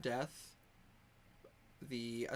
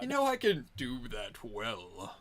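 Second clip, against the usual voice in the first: hammed-up deep character voice; exaggerated deep voice; 3 semitones lower, 4 dB louder than usual. Game master replays the teased line, exaggeratedly deep. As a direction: parody your own voice getting deep. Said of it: "Her voice got deep at the end".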